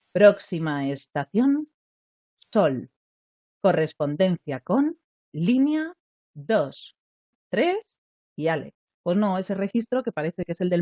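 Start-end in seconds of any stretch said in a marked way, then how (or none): 0.1-8.7 slow, drawn-out station announcement; mock the sing-song metro tannoy; metro announcer. Voice coach mocking the metro announcer's tone, slow and sing-song. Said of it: "el del metro".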